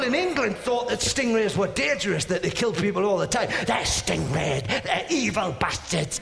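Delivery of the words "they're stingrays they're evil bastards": slow, drawn-out warning; lightly voiced scaremonger, stretched out; mock alarmist. People in England blaming stingrays, mock menace.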